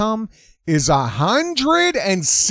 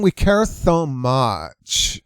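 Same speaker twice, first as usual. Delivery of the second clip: mock earnest; 2 semitones lower, much slower than usual. Mocking activists in character.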